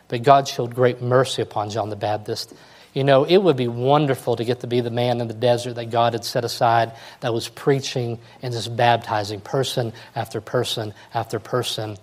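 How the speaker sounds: normal talking voice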